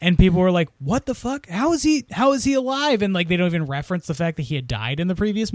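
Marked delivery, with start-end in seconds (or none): 0.8-3.0 high, incredulous questions; high-pitched imitation of disbelief; mock bafflement. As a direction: play a confused audience demanding answers. Acts out baffled audience reaction.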